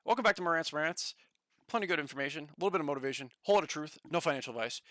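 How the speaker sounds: lightly voiced host intro, steadier; calm mock show opener; Marantz impression. Reworked Marantz impression for chat, understated host voice. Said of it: "I gotta work on my impression".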